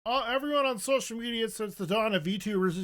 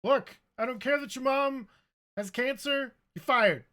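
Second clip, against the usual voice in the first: angry boss; 6 semitones higher than usual. Pretend. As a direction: yell at Jeff, firing him. Skit boss firing Jeff.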